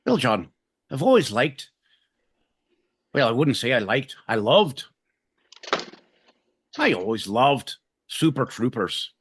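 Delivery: put-on lightly done Irish accent, answering a question; a hint of an Irish lilt; understated Irish accent answering a game-show question.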